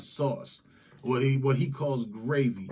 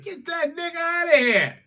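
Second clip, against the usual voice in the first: mock racist Southerner; 13 semitones higher, 4 dB louder than usual. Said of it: "It's like".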